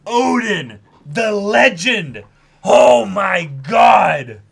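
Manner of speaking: very high, very loud, slow lament; loud wail. Real, not acted. Fan mourning Odin, high and loud. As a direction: wail for the fallen hero. Mock mourning moment of silence.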